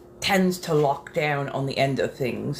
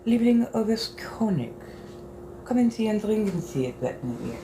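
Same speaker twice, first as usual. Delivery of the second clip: put-on brisk German-accented invitation; inviting the colonel to drink, in German; quick German line in character; German accent attempt; 6 semitones higher than usual. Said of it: "trying to keep this accent".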